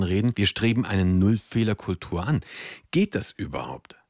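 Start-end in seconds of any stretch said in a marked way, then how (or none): 2.9-4.0 whispered rhetorical question; breathy whisper, slowed down. Real, not acted.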